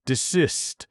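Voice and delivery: a woken sleeper crying out to stop; shuddering commands. A narrator's reading. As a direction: shout him down to stop the noise. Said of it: "shuddered Sleeperoo".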